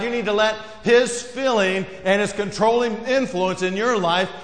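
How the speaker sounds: preach. Acted. Preaching at full force.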